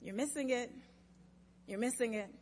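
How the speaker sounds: put-on quiet aside from a child in the background. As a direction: say it softly, as if from behind the group. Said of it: "in the background".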